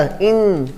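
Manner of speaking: "इन" drawn out through the nose; nasal vowel. Shown as a demonstration. Teacher demonstrating nasal sounds, "इन" long and nasal. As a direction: hold "इन" as a nasalized i. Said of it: "नाक से भी बाहर निकलता".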